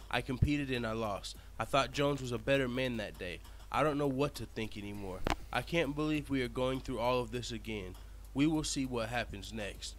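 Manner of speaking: somber, restrained statement reading; prepared statement read. Shown as a demonstration. Reading the prepared statement aloud to viewers, subdued and somber. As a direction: read it like a solemn press statement. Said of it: "First, let's read the prepared statement".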